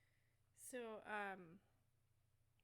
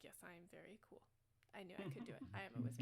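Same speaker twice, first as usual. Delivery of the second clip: posing proudly; 3 semitones lower, much faster than usual. Acted. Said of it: "he's, like, posing".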